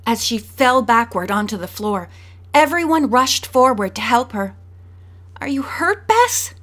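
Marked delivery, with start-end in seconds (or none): 5.4-6.5 solicitous. A narrator's reading. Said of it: "Nancy asked solicitously".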